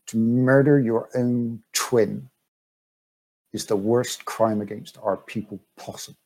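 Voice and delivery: measured, understated accusation; cool, controlled condemnation with deliberate pauses; cool customer. Acted. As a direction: deliver the charge coolly, unhurried. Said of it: "she's a very cool customer".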